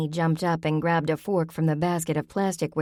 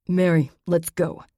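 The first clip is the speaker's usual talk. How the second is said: spitting words; 3 dB louder than usual. Acted. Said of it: "fairly spat out the words".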